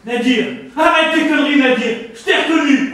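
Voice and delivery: annoyed shout. Acted. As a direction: call out the prank. Caller exposed, angry.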